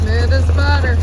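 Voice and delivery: loud voice over engine roar; shouting over engine. Real, not acted. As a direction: call it out over the engine noise.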